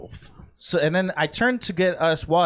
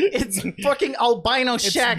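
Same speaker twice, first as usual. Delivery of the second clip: laughing; 5 semitones higher than usual. Real, not acted. Laughing at being called Shaq.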